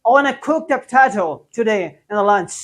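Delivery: cook said slowly and evenly, each word set apart; slow example sentence. Shown as a demonstration. Teacher to class, slow cook example. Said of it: "कुक क्या हो जाएगा जी?".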